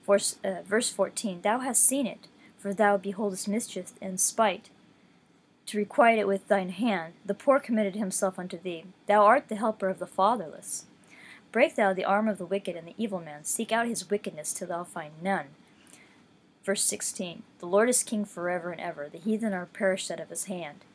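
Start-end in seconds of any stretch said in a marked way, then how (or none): 1.4-15.5 scripture reading. Acted. Reading Psalm ten aloud to listeners, measured scripture voice. 17.6-20.9 scripture reading. Acted. Reading Psalm ten aloud to listeners, measured scripture voice.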